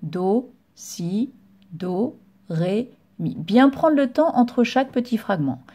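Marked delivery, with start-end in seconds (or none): 0.0-3.3 softer, unhurried note names; slower note reading. Shown as a demonstration. Teacher shows the slower way to the pupil, soft and unhurried. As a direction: read the notes a bit more slowly. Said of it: "ou alors un peu moins vite".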